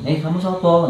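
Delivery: caretaker asking. Retold or imitated. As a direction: ask like the puzzled caretaker. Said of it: "itu nanyain".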